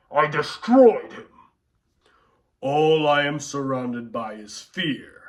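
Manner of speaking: lightly voiced menacing Vader; Darth Vader. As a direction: speak like a cold dark lord. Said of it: "we're gonna do Darth Vader".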